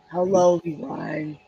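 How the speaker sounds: lightly voiced deep old lady; a hint of a mannish New York old lady; Calpurnia Stratford. Shown as a demonstration. Old lady character greets everyone, attempted deep voice. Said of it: "she has a very deep voice".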